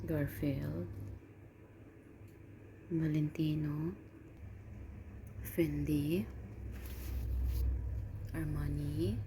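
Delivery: soft near-whisper; hushed goodbye. Real, not acted. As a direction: murmur so the sleeping cats stay asleep. Hushed goodbyes to sleeping cats.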